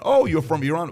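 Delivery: lightly acted high, rising friendly question; casual surprise. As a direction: act pleasantly curious, lifting the end. Acted friendly reply, then wary repeat.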